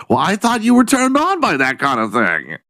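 high, put-on woman's retort; mock woman's voice. Woman defending herself to the man, mock protest. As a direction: answer back in a high mock-female voice.

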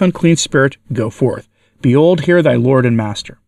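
measured, solemn pronouncement in phrases; solemnly narrated adjuration, with pauses. A narrator's reading. Bishop commanding the unclean spirit to depart, solemn voice. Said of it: "he said with a solemn voice".

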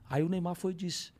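normal talking voice

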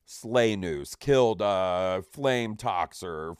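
lightly voiced repeating announcement; deliberate, spaced-out kill announcements; imitated game kill feed. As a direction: read kills like a game notification, drawn out. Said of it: "and it just says".

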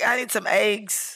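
slow mimicry with "eggs" as "aygs"; imitating Northern "eggs", long A; Northern pronunciation. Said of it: "Northerners say weird shit like that".

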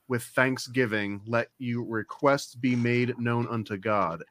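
low, measured Bible reading; scripture reading. Acted. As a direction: recite the verse evenly and soberly. Reads Bible verse aloud.

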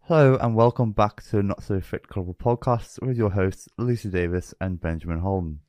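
projected with a bone prop in; bone prop in mouth. Shown as a demonstration. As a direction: push words forward past the prop. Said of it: "helps you project the word".

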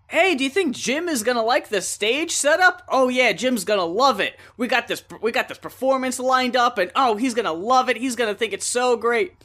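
eager chatter, a hint of puppet brightness; excited Muppets. Retelling the Jim Henson special, the Muppets' cheerful excitement. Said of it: "they're all like".

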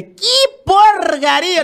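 high, slow, loud scornful "que porcaria"; scornful scoff. Retold or imitated. Singer scoffs at her partner's gospel CD, dragged-out disgust. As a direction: drag it out in disgust.

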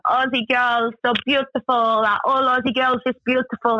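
mock admiring driver, pitched a little up; imitated Russian driver. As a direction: play the driver gushing in broken English. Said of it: "the guy driving is just staring in the rearview mirror going".

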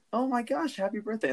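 high, sing-song mock cheer; gushing cashier imitation. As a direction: play it like an overexcited clerk. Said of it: "And he's like".

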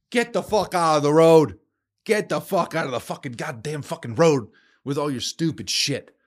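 venting rage at cyclists, yelling; angry yell. Real, not acted. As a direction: bark it at the drivers in your way.

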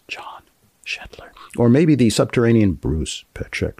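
hushed, conspiratorial whisper on the names; mock mysterious whisper. Host whispering the mysterious engineer names in the closing credits. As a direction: whisper it like a secret.

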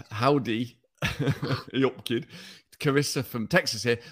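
lightly voiced Uttoxeter accent. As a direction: read it in a broad Uttoxeter accent. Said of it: "Just do it in your stupid Uttoxeter accent".

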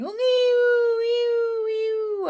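loud, high seagull screech; crying gulls. A narrator's reading. Gulls joining in the noise, loud high crying. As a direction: wail it out like startled gulls.

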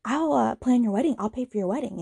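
high, eager mock mom voice; lightly voiced gushing mother. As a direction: gush like an overeager friend. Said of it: "his mom goes".

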